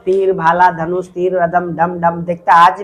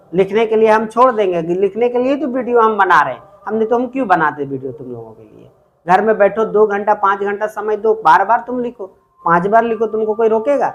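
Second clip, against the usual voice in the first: scolding; 3 semitones higher than usual. Real, not acted. Teacher scolding students for writing.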